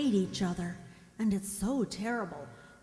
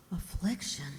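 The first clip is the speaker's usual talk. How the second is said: shocked gasp; 5 dB quieter than usual. Acted. Helen hears the girls had afflictions.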